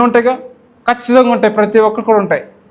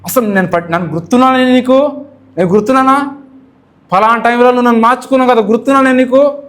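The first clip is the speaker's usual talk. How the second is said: complaining to God; 4 semitones higher than usual. Retold or imitated. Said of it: "మనం ఏమంటున్నాం".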